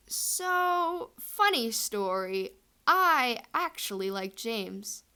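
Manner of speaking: sheepish confession to a friend; embarrassed confession. Retold or imitated. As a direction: admit it slowly, squirming. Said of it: "She's embarrassed about this".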